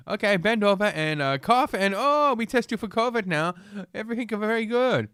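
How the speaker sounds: put-on high-pitched caricatured Chinese accent; mock Chinese accent. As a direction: play the tester in a bad Chinese accent. Acting out the Chinese tester.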